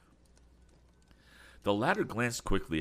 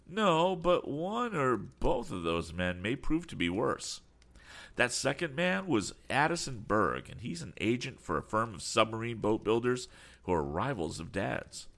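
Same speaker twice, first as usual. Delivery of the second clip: lightly voiced lad, higher-pitched and earnest; young inventor, concerned; 7 semitones higher than usual. A narrator's reading. Young inventor warning friend about rival agent, mildly concerned. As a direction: explain with a touch of worry, pitch raised.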